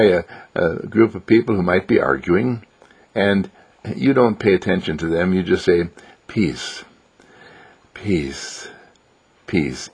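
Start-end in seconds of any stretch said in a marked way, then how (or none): 6.3-9.9 soft, hushed, spaced-out words; inward, not out loud. Acted. Walking past arguing people, saying it silently, softly. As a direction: breathe each word softly, with long pauses. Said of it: "in your heart, not out loud".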